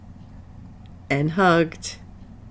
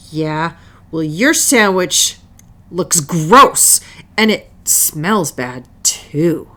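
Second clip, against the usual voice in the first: snapped. Acted. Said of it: "Selma snapped back".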